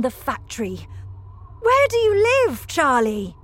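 put-on animated, emphatic invitation to a child; lively storybook factory owner; lightly voiced Mister Wonka. A narrator's reading. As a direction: build to a loud, high question.

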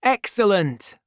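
D'Artagnan delighted his friends agree; cried with delight. A narrator's reading. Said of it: "cried D'Artagnan".

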